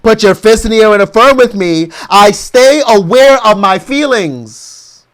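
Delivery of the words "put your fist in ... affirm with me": ordinary delivery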